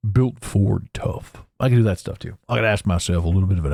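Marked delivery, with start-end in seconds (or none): 0.1-1.4 a slow, lower truck-ad voiceover; lightly imitating the voiceover of a Ford truck commercial; Sam Elliott voiceover. Slow, lower mock truck-ad voiceover. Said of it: "all of the stuff that Sam Elliott used to do".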